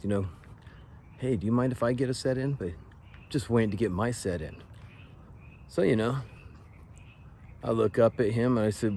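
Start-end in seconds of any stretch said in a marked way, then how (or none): 1.2-2.5 higher, quick courteous ask; polite request. Shown as a demonstration. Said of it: "He could have asked". 3.3-4.6 blunt statement in place of asking; imitated impolite demand. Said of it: "you talk like that to him".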